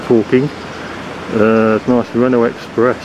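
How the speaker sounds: muffled behind a mask; talking through a face mask. Real, not acted. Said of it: "excuse the mask and the muffled, uh, talking".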